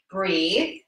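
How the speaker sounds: breathy whispered cue; whispering. Real, not acted. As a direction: whisper it gently. Soft breath cue in stretch.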